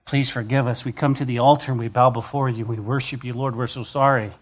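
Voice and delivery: a soft, humble plea for forgiveness; bow your head and beg gently; sorry prayer. Pretend. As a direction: Israel as the preacher wishes it prayed, soft and penitent. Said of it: "I wish at this point Israel would have said".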